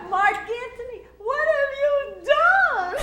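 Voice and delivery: very high, slow, strained squeal; a scared beginner squeaking the grand line; squeaky terrified novice. Retold or imitated. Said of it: "Harold goes".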